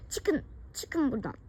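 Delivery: tearful cry. Acted. Daughter drives parents out.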